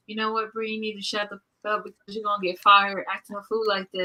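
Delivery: scolding herself. Retold or imitated. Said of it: "last week I said".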